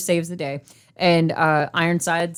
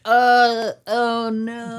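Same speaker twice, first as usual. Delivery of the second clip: higher-pitched hammed-up oh no; mock dismay; 5 semitones higher, much slower than usual. Character laughing off bullets, mock dismay. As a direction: feign helpless alarm. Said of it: "he's just like".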